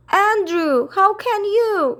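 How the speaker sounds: high, loud, shocked reproach; dismayed cry. Acted. Miss Lark reproaches her dog, high shocked cry. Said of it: "cried Miss Clark".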